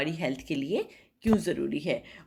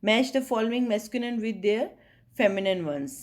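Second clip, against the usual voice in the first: slow, deliberate reading of the heading; textbook read-aloud; 2 semitones higher, much slower than usual. Acted. Teacher reading the heading to students, slow and deliberate. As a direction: read it out word by word for the class. Reads the exercise instruction.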